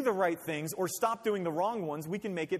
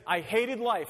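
mock tantrum; 3 semitones higher, 5 dB louder, slower than usual. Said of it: "you can hear him say".

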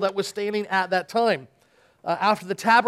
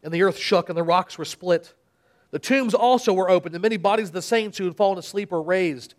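dramatic Bible reading with voiced crowds; scripture reading; 2 semitones lower than usual. Pastor reads the Passion to the church, dramatic reading. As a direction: read the Passion aloud to the congregation.

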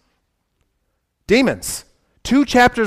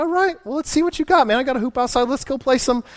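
Dean's challenge; 5 semitones higher, 3 dB quieter than usual. Retold or imitated. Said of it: "Dean's like".

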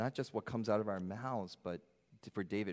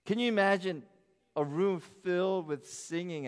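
excited appeal; 8 semitones higher, 6 dB louder than usual. Real, not acted.

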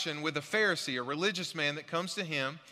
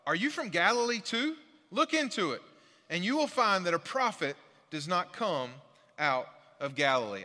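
mocking reply. Pharisees taunt Nicodemus about Galilee, raised and mocking. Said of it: "They replied".

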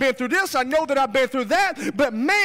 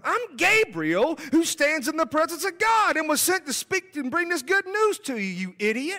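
indignant angel; 3 semitones higher than usual. Retold or imitated. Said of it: "That's kinda how I picture this whole scene going down".

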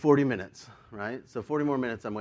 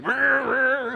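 higher growl of an engine; imitated car noise; 9 semitones higher than usual. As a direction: imitate a car grinding into reverse. Imitates car thrown in reverse.

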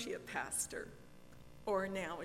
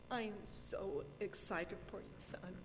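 ugly crying; 3 dB quieter than usual. Real, not acted. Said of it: "as I'm ugly crying".

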